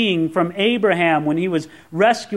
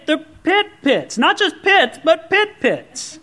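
"pit pits" said higher and slower, punching "pit"; emphatic pitch rise; 7 semitones higher than usual. Shown as a demonstration. Preacher showing the congregation how Hebrew repetition adds emphasis, said emphatically. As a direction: lift and slow down on "pit pits" to show the doubling. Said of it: "it emphasized, it expanded".

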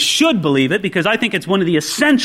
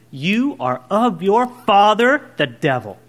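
direct confrontation. Acted. Jesus facing proud religious rulers, deliberate confrontation. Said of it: "he looks at them square in the eye".

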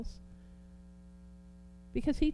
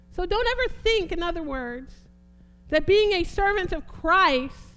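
emphatic, raised preaching voice; forceful preaching; 7 semitones higher, 8 dB louder than usual. Real, not acted.

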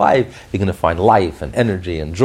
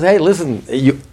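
the godly soul, raised higher and louder, firm and insistent; godly soul speaking; 10 semitones higher, 5 dB louder than usual. Retold or imitated. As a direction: speak as the soul who holds the keys, lightly voiced. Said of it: "And the godly soul says".

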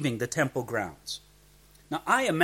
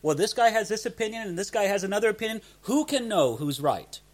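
lightly voiced shrugging agnostic, higher at first; a hint of a doubter throwing up the question; prophetic agnostic; 6 semitones higher than usual. Preacher voices agnostics who won't decide on prophecy, lightly mocked doubter. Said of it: "speak about prophecy and say".

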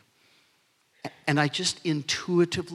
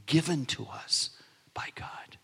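reverent whisper. Acted. Preacher ending the scripture for the church, whispered. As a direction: drop to a hushed whisper on the last words.

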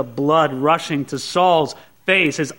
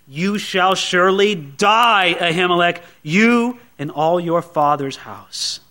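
grim sentence; slower than usual. Acted. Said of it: "makes Saul all the more angry".

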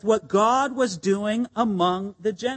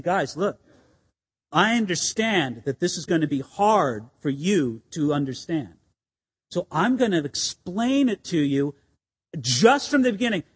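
loving and gracious; 6 semitones lower than usual. Retold or imitated. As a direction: explain gently to friends who are struggling. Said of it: "Peter is being very loving and gracious".

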